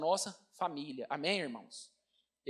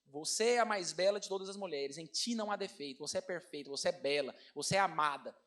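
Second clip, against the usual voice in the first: softer and lower, each phrase cherished; tender declaration; 4 semitones lower, 4 dB quieter than usual. Retold or imitated. Father telling daughters and wife they are beautiful, tenderly. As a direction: murmur it like a loving vow. Reciting Song of Songs to family.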